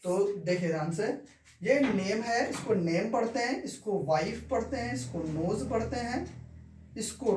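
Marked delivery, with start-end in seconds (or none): 2.7-3.1 "नेम" ending on m, no e sounded; silent final e. Shown as a demonstration. Teacher showing students how name is read, silent e. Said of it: "ई का उच्चारण कुछ नहीं है". 4.0-4.5 "वाइफ" ending on f, no e sounded; silent final e. Shown as a demonstration. Teacher showing students how wife is read, silent e. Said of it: "ई का उच्चारण कुछ नहीं है".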